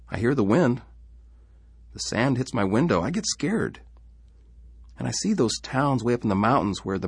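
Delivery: put-on a small boy confiding his fears; frightened little boy telling Papa; young boy's voice. Child David voiced throughout.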